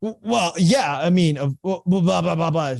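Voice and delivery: high flustered stammer into blah blah; mock flustered rant; upset homeowner. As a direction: sputter like an upset owner. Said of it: "She was upset".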